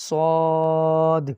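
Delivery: "صاد" held long and loud, clear dal at the end; teacher correcting a common mistake; correct saad. Shown as a demonstration. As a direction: say "صاد" with a long aa and a crisp final d. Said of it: "صاد جو پڑھنے کا جو مخرج ہے وہ یہ ہے کہ آخر کے اندر دال کی آواز آئے".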